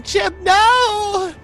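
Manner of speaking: high, loud wail of despair; hammed-up high scream; anguished cry. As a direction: shriek it out in grief. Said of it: "Ellie is sitting there going".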